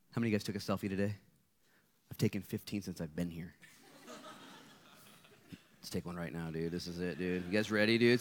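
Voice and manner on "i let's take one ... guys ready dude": laughing. Real, not acted. Goofing a selfie with crowd.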